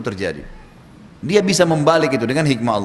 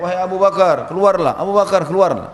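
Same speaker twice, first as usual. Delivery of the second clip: retold shout, higher and louder; Abu Jahal; 4 semitones higher, 4 dB louder than usual. Preacher voices a foe shouting at the garden, calling loudly. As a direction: call him out from outside. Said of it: "Abu Jahal teriak-teriak".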